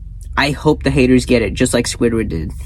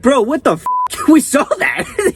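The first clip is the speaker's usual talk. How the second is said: laughing outburst; 12 semitones higher than usual. Retold or imitated. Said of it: "it's like".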